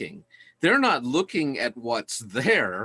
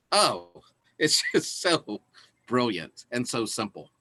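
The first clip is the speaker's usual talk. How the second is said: getting excited. Real, not acted. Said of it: "Sorry, I'm getting excited".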